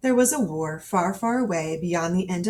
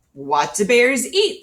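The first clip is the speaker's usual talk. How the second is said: slow, higher, louder puzzled question; soldiers puzzled; 5 semitones higher, 7 dB louder, slower than usual. Acted. Soldiers wondering about the hungry cub, slow puzzled question. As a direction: wonder together what bears eat.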